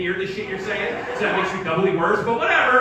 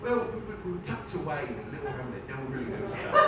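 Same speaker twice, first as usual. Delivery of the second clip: put-on soft English accent, falling lower; 5 semitones lower, 5 dB quieter, faster than usual. Comedian dodging a woman's question about his hometown, English accent. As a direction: bluff gently in an English accent. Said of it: "that English accent".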